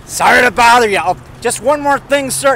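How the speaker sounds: a mild Columbo impression, politely pestering; the detective showing up yet again, lightly imitated. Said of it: "Columbo stays out of trouble".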